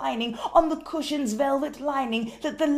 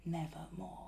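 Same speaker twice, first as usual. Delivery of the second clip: eerie, breathy whispered croak of a bird; raven's whisper; 6 semitones lower, 13 dB quieter than usual. Acted. The raven answers the grieving man in an eerie whisper. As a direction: let the raven breathe its one word. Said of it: "Then the bird said".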